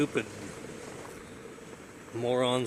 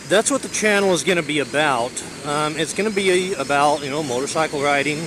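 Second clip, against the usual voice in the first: shouting over wind; 2 semitones higher, 4 dB louder than usual. Real, not acted. Talking while riding in wind.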